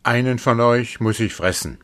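lightly voiced hungry wolf; greedy wolf. A narrator's reading. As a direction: announce the meal like a hungry wolf. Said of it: "Er ging zu ihnen und sprach".

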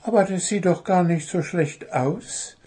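high little bird voice, untroubled; unruffled. A narrator's reading. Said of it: "meinte sein blaugefiederter Mitbewohner gelassen".

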